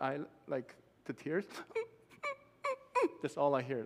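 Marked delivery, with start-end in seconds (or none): 2.6-3.2 high little imitated whimpers; tiny squeaky mock sobs; puppy-like whimpering. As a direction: mimic a crying child like a puppy. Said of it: "like a little puppy".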